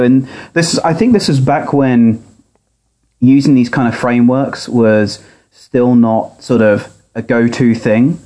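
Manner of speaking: tinny audio through laptop speaker; thin, boxy speaker sound. Real, not acted. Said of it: "recorded from his laptop speaker".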